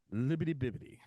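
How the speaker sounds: imitating ad actor. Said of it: "he talks like this".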